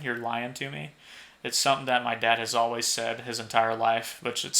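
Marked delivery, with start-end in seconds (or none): 0.0-0.9 "lying" with the g dropped, like "lion". Shown as a demonstration. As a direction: make "lying" sound like "lion". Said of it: "but lying, "You're lying to me".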